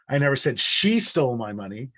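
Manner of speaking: she lifted with a rising tune; single out the word she; stress on she. Shown as a demonstration. Teacher showing the class stress on she. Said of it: "I'll prove it to you".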